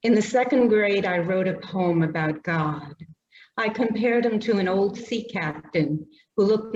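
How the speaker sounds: measured, slowed poem reading voice; poetry reading. Acted. Poet reading her poem to the audience, measured and unhurried. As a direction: let each image land gently.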